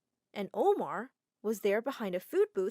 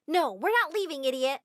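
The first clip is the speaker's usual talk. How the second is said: loud, higher defiant yell; 5 semitones higher, 5 dB louder than usual. Acted. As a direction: refuse at full voice. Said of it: "one of the girls yelled".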